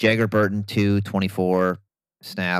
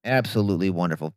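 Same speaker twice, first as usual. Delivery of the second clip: dry, understated sarcasm; sarcastic; 2 semitones lower than usual. Real, not acted. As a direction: say the praise deadpan, not meaning it. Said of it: "That's sarcasm".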